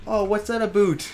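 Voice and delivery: Canadian caricature, pitched high; mock Canadian accent. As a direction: put on a silly Canadian accent. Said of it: "Their accent".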